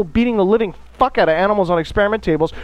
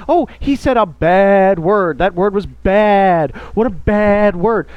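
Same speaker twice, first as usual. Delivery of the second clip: mock prudish scold; slower than usual. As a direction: ham up a scandalised elder clutching pearls. Mocking prudish older generation.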